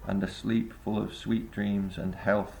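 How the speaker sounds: measured, slightly slowing recital of verse; poem reading. Acted. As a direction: read the Keats lines like a poem. Reads Keats poem aloud.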